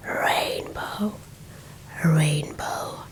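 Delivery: usual speaking voice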